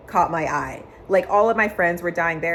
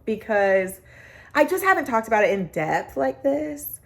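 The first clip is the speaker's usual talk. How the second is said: getting emotional. Real, not acted. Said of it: "I'm getting emotional talking about it".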